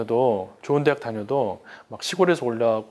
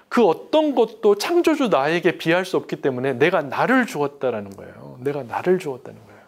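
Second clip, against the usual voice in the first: ordinary talk, nothing marked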